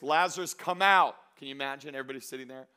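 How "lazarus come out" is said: loud, raised command; acted preacher's summons, projected; calling in a loud voice. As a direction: call it out over a crowd. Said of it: "Jesus called in a loud voice".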